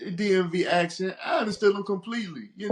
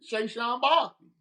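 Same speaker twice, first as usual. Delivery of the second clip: slow drawn-out mimic of the D C fan's accent; 4 semitones higher, 3 dB louder, much slower than usual. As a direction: stretch the name like the D C fan. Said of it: "it's that accent".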